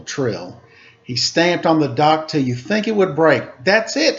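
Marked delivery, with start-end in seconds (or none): 3.6-4.2 sharp, higher angry cry; exclaimed. Acted. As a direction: snap it out, fed up. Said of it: "he exclaimed".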